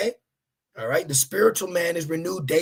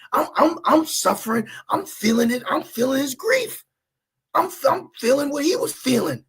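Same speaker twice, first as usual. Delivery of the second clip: a touch of tender suffering, raised; pretend grief; 8 semitones higher than usual. Preacher voicing a believer feeling grief, mild sorrow. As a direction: feel the grief lightly. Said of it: "put in your mind's eye".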